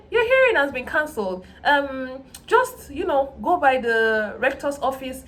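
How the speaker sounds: lightly voiced office clerk giving the news; imitating the official. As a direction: play the office woman reading out instructions.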